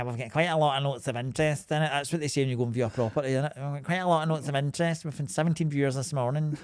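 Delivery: lightly put-on posh estate agent accent; a hint of a smooth estate agent accent selling a house. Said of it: "that accent is tremendous".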